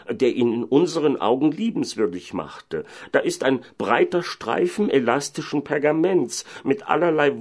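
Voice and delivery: mayor declaiming. Acted. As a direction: show the evidence to the crowd, voice lifted. Voices the mayor showing the cloth. (Bürgermeister, verkündend)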